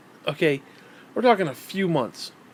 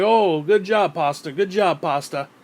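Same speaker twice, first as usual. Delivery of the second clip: sarcastic fawning congratulation; exaggerated fake admiration; mock praise; slower than usual. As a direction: imitate a fawning follower, sneering. Mocks congregation praising the pastor.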